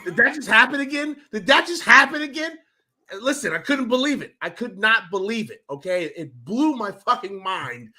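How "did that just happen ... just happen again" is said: high-pitched incredulous question, rising; retold disbelief. Fan asking his friend about the win, retold disbelief. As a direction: repeat it higher, as if stunned.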